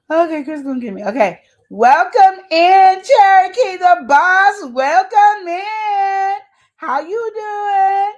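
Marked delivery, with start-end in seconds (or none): 1.7-8.1 loud, high, slow welcome call; host welcome. Real, not acted. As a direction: draw out the welcome like a show host. Greeting guests like a host.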